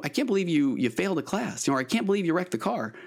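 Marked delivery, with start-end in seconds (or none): 0.0-1.7 pitched-up mock indignation, volume held back; half-acted exasperated parent; losing it. Parent told of a failed class, mock indignant. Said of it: "then we lose our minds". 1.8-2.9 higher-pitched mock disbelief, not shouted; mildly acted scolding parent; losing it. Parent told of a wrecked car, mock indignant. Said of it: "then we lose our minds".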